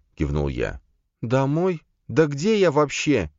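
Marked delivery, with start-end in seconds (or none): 1.2-3.3 high-pitched, confused questioning; bewildered. A narrator's reading. Соня asking where she even is, bewildered. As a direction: voice jumps up, completely lost. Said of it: "не понимала Соня".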